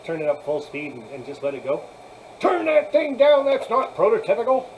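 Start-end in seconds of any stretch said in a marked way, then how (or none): 2.4-4.7 mock yell. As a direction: yell it like a friend scolding your train speed. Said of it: "Manny yells at me a lot".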